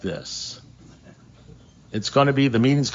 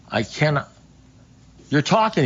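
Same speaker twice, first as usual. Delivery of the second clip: astonished; 4 semitones higher than usual. Retold or imitated. Astonished at talking dog.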